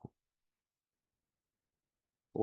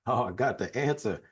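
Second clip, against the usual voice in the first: bursting out with it, a bit higher and louder; mock proud know-it-all; eager know-it-all; 4 semitones higher, 4 dB louder than usual. Psychologist at home, hamming up the urge to fix things. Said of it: "I'm like".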